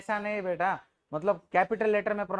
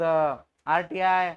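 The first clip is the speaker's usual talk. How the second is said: slow spelled-out example; 2 semitones lower, 3 dB louder, much slower than usual. Shown as a demonstration. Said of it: "ऐसे जो भी word है".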